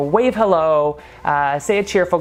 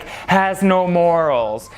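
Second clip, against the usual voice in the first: slow sign reading; much slower than usual. Retold or imitated. Reading Eve's wall postings aloud, slow and deliberate. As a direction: read the sign slowly, word by word. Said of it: "And it said, like".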